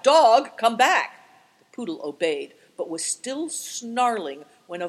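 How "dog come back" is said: loud, high call to the dog; an old man calling his dog back. A narrator's reading. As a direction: shout after the running dog. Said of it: "Affliction called out".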